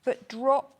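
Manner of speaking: word cut by a hiccup. Real, not acted. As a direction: hiccup in the middle. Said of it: "I've got hiccups now".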